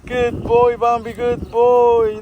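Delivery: loud, drawn-out praise to a dog; pet praise. Real, not acted. Owner to dog Bambi, loud cooing praise. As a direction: praise the dog slowly and loudly.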